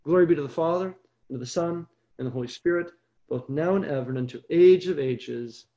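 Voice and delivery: low, measured doxology; closing prayer. Real, not acted. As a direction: recite it as a familiar blessing, pitched low.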